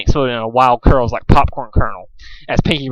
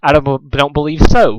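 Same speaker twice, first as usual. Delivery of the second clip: hissed. Acted. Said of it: "hissed her nemesis".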